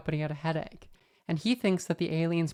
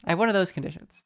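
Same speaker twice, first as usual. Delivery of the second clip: louder, pointed repeat; emphatic; 4 dB louder, faster than usual. Shown as a demonstration. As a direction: land it firmly for the listener. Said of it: "repeated differently".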